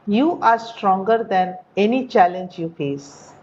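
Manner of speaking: careful slow teacher reading for learners to copy; slow model reading. Shown as a demonstration. Teacher models the paragraph for the class, slow and clear. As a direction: read it slowly and clearly, every word shaped. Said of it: "Listen to the pronunciation, listen to the rhythm".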